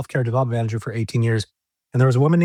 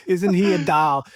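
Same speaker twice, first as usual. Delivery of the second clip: higher-pitched mock North Dakota accent; Barbara's Fargo accent; 6 semitones higher, slower than usual. Repeating the nurse's phrase for the host, imitated Fargo accent. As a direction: do an amateur Fargo accent impersonation. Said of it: "She was from Fargo".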